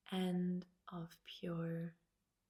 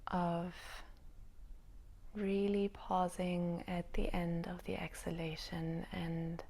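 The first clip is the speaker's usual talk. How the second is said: spacious meditation-teacher delivery with long pauses; unhurried guiding voice, lingering between thoughts; yoga nidra guidance. Real, not acted. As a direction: let each phrase settle before the next. Guides listeners into yoga nidra.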